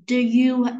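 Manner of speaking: "do you" with "do" reduced to "də"; unstressed schwa in "do", leaning onto "you"; slow demo of weak "do" in "do you"; weak form. Shown as a demonstration. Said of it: "đọc dạng yếu của nó".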